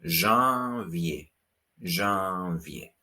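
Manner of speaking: janvier with nasal first vowel, zhahn-vyay; janvier, nasal French vowel. Shown as a demonstration. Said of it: "That's a nasal vowel sound".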